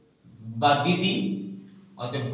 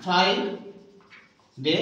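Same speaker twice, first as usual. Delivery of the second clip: ফ্রাইডে stretched very slowly; drawn out model word; much slower than usual. Shown as a demonstration. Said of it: "সঠিক উচ্চারণটা হবে". (টেনে টেনে ফ্রাইডে)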